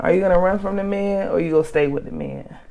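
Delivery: breathless after ranting; running out of air, still pushing; out of breath. Real, not acted. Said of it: "I'm out of breath".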